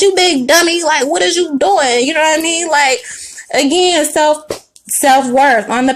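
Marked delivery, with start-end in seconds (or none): 0.0-2.0 lightly voiced grumpy old man scolding, a bit higher; a hint of Fred Sanford calling someone a big dummy; mildly done sitcom junk dealer scolding. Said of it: "my Fred Sanford voice".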